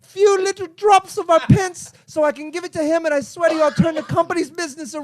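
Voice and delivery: begging English pauper, lightly put on; Oliver Twist. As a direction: plead for the last pennies. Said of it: "said it like Oliver Twist".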